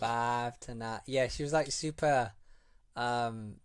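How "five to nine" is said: slow mock Hull 'Five to nine'; playful Hull impression; Hull accent. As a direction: imitate Hull's flattened 'five'. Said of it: "someone with a strong Hull accent".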